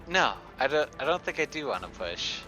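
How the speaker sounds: ordinary talk, nothing marked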